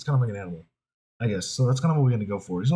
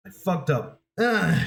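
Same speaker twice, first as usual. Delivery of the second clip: ordinary talk, nothing marked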